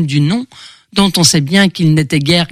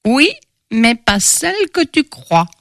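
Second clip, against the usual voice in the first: put-on cryptic old crone, higher pitch; old fortune-teller; 4 semitones higher than usual. A narrator's reading. Old palm reader answering Victor's question about glory, cryptic crone voice. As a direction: answer as the knowing old prophetess. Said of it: "la vieille".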